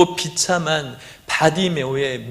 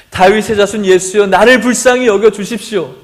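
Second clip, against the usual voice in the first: raised, pleading call; crying out louder; 3 semitones higher, 5 dB louder than usual. Acted. Bartimaeus shouting louder over the crowd to Jesus, pleading. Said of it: "더 크게 소리 질렀어요".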